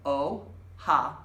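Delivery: "Ojalá" slowly, broken into separate syllables. Shown as a demonstration. Teacher helping students say "Ojalá", slowly syllable by syllable. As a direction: draw out each syllable of "Ojalá". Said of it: "say it slowly".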